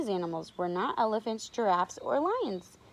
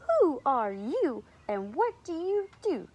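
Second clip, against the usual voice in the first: higher, mildly haughty challenge; raised-pitch, lightly voiced rude elephant; not very nicely; 6 semitones higher, 4 dB louder than usual. A narrator's reading. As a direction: ask it with a touch of unfriendliness. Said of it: "but not very nicely".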